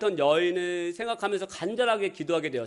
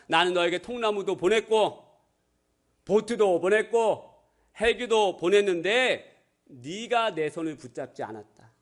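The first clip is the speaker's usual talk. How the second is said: God's answer; slower than usual. Acted. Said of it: "하나님께서 이렇게 대답하셨죠".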